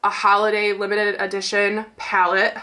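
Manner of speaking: stuffy, nasal tone from a blocked nose. Real, not acted. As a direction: speak through a congested nose. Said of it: "God, I hate my nasally voice right now".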